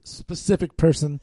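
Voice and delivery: slipping into a Chicago accent on "specific"; "specific person" with Chicago vowels. Real, not acted. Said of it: "My Chicago accent kinda came out".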